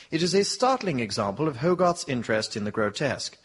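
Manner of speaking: measured gallery guide voice; audio guide. Acted.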